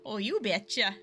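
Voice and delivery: a lightly done Midwestern Canadian you betcha; self-admittedly weak Midwestern Canadian accent; a hint of Midwestern Canadian, rising at the end. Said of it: "I don't do it too well".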